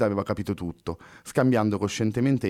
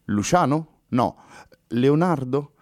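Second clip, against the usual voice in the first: perplexed; 3 semitones higher than usual. Acted. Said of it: "disse perplessa la ragazza".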